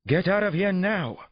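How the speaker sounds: high, drawn-out yelled order; loud yell. A narrator's reading. Therapist orders patrolmen out, loud high yell. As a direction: yell at them to leave, stretching it. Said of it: "Doctor Cassidy yelled loudly".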